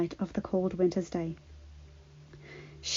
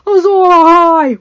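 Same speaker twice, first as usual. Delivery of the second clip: higher, louder whoop; 9 semitones higher, 13 dB louder than usual. Acted. Benjen taking up the cry, whooping. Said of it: "whooped Benjen".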